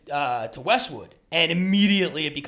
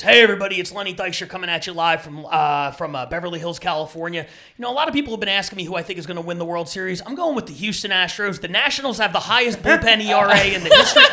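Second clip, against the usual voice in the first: lightly imitated live video host, building louder and higher; Lenny Dykstra; 3 semitones higher, 5 dB louder than usual. Ex-ballplayer posting a video from a bonfire, lightly mimicked announcing. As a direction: open with a loud hail, then build to a big finish. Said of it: "Lenny Dykstra has posted a video".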